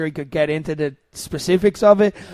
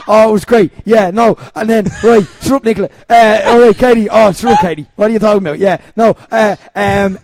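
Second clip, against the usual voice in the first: loud, halting imitation full of ums; Keane impression; 6 dB louder than usual. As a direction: do a loud, rambling mimicry that falls apart. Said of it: "I lost my impressions with Keane".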